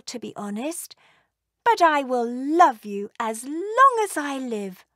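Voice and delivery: a hint of a fond, gushing dragon; doting mother dragon. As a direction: coo over her firstborn like a proud mother. Mother dragon adores hatchling.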